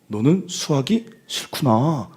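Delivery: slow, drawn-out sympathetic reflection; demonstrated empathy. Shown as a demonstration. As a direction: stretch the ending like a counsellor, playfully. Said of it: "이거 하세요, 오늘부터". (상담사처럼 길게 공감해 주는 시범)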